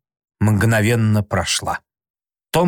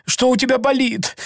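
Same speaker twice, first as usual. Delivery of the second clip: frightened high voice; 9 semitones higher than usual. A narrator's reading. Sid scared by the moaning.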